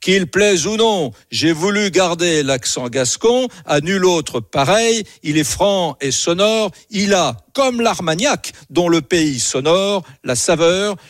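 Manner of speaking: lightly put-on Gascon accent, rising to a proud close; Gascon accent, imitating uncle. Ending his uncle's poem for radio listeners, Gascon accent. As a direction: declaim the punchline of a Gascon poem. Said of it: "je vais essayer de le faire comme lui".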